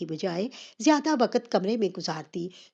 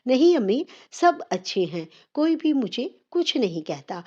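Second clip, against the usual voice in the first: daughter startled, blurting a higher, louder no; jolted into answering, then settling; startled reply; 5 semitones higher, 4 dB louder than usual. Acted. Daughter caught off guard by her mother's question, startled. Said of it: "چونک کر کہا".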